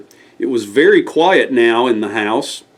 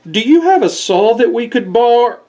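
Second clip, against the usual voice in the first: higher, lightly voiced neighbors; a hint of cheery squirrels; 8 semitones higher than usual. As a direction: ask hopefully, cut off.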